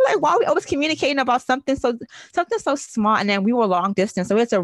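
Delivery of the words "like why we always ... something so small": higher, quick whining mock; mock whiny partner. Woman mocks her boyfriend about constant talking, quick whine. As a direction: rattle it off like an annoyed boyfriend. Continues mocking partner's complaint.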